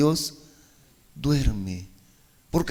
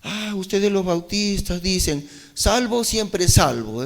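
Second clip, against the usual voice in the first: mocking quote; 5 semitones higher than usual. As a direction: mimic the scoffers, half-hearted ridicule. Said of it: "burlándose dicen".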